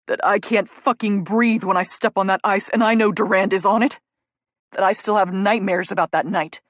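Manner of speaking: loud, raw, building to a near shout; anguished loud confession rising to a shout; anguished outburst. Acted. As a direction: hurl it at her, hurting. Jake's anguished outburst at Rachel.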